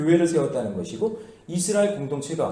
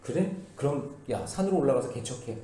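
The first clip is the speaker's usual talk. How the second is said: casual, softer Joshua brushing Ephraim off; blunt Joshua, casual; 3 semitones lower, 7 dB quieter than usual. Retold or imitated. Joshua telling Ephraim to go clear the hills, casual and blunt. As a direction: toss it off bluntly, low-key. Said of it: "그냥 편하게 얘기해 볼게요".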